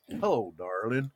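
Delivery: low, soft crooner imitation; a country singer. Host retells the Family Guy cutaway, imitating a country singer. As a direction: sink the voice down into a mock country croon. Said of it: "we always cut to Conway Twitty".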